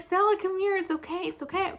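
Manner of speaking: soft, soothing the dog; gently calm a scared pet. Retold or imitated. Calming the dog.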